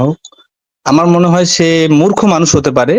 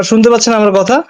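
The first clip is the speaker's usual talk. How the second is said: louder for someone hard of hearing; speaking louder; 6 semitones higher than usual. Real, not acted. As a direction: raise your voice so they hear. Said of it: "জোরে বলতে হবে". (জোরে বলা)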